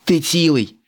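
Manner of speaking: worried check on a friend; high, anxious ask after a fall; concerned. A narrator's reading. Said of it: "стурбовано спитав".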